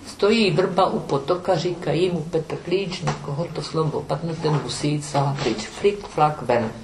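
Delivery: put-on sing-song children's rhyme; counting rhyme. Shown as a demonstration. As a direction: chant it like a playground counting game. (comptine d'enfant scandée)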